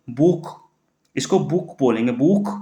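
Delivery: बुक with a long ऊ sound; German Buch. Shown as a demonstration. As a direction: stretch the ऊ in बुक. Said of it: "यहाँ पे ऊ की ज़्यादा साउंड आ रही है".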